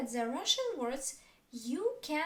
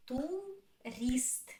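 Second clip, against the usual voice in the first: "Tourist" drawn out in two separate syllables. Shown as a demonstration. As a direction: split "Tourist" into tu, rist. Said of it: "Two syllables".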